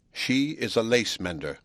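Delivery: slow, each word placed, glee held back; slow repressed glee. Acted. William tells Hunsden his news, slow held-back glee. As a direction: savour it slowly, hiding the triumph. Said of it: "uttering the words slowly, but with repressed glee".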